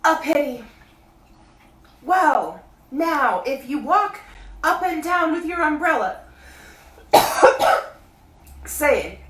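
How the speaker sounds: high, loud bear calling down; Pooh voice. A narrator's reading. Pooh calling down to Christopher Robin, high bear voice. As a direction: call up from the honey tree like a bear.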